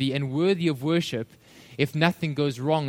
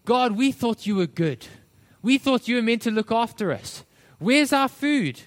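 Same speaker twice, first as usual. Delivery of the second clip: grumbling, moaning; 6 semitones higher than usual. Retold or imitated. Preacher voices Israelites grumbling in the wilderness, mock moaning. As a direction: imitate a whiny complaint to God. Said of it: "they're grumbling and they're moaning".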